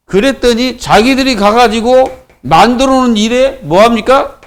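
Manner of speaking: ordinary talk, nothing marked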